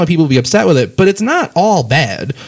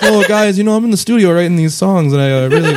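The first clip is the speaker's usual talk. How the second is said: put-on Canadian accent; 4 semitones higher than usual. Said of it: "when you're doing a singer as a speaker, he's like a, like a Canadian man".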